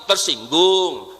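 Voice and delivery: slow low sulky "Tersinggung"; mock sulky tersinggung. Mock answer, drawn out.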